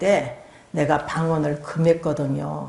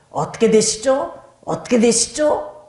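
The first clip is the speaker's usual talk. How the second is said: "어떻게 되시죠?" pitched higher, with a firm rise on 되시죠; pointed questioning; 4 semitones higher than usual. Retold or imitated. Spirit pressing the false evangelist with a question, high and insistent.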